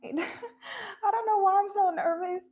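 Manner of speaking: laughing through nervous words. Real, not acted. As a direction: giggle the nerves out. Nervous laugh about opening up.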